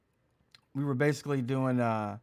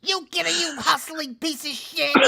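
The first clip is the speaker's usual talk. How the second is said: bartender yelling; 12 semitones higher than usual. Retold or imitated. Bar lady screaming at the homeless man, high furious yell. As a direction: chase the bum out at full volume. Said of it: "they would be like".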